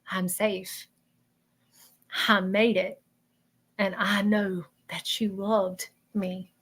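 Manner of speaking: soft, slow relayed message, with long pauses; tender reassurance. Retold or imitated. Reader relaying a man's message to let her know, tender reassurance. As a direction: give each phrase softly and let it settle. Voicing spirit's message to grieving woman.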